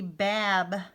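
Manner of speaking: "bab" with a short A, closed by the B; closed syllable. Shown as a demonstration. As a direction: sound out "bab" as in cab. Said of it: "closed syllable".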